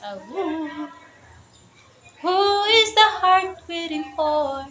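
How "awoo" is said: softer playful howl; a small quiet pretend howl; soft wolf howl. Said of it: "Are you a baby wolf?". (mahinang pakunwaring alulong)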